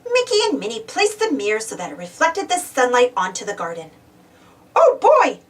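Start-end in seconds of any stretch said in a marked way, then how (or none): 4.8-5.4 high, loud happy cry; excited shout. Acted. Donald seeing his garden grow, excited loud shout. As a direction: burst out with joy. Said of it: "shouted Donald".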